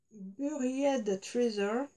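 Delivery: slow, careful French-accented English; French accent, English brand name. Real, not acted. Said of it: "Désolée pour mon accent".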